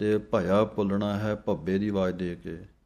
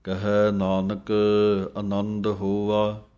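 gurbani recitation; 4 dB louder, slower than usual. Acted. Resumes slow recitation.

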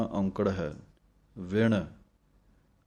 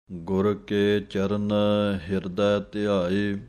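scripture recitation; slower than usual. Shown as a demonstration. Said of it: "teacher recites the hymn line".

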